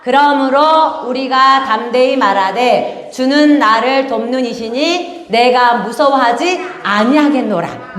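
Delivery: slow recited Bible verse; scripture reading. Acted. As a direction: read the verse slowly together. (천천히 낭독하는 성경 구절)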